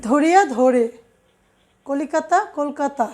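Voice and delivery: ধরে as "dhore", কলকাতা as "kolkata"; closed o opening ধরিয়া and কলিকাতা; first vowel as o. Shown as a demonstration. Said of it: "ওকারের মতো উচ্চারিত হয়".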